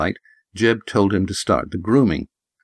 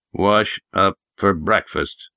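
put-on grunting old prospector; slower than usual. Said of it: "Jeb grunted".

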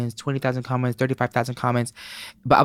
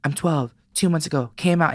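put-on kid's voice; 6 semitones higher than usual. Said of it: "And he goes".

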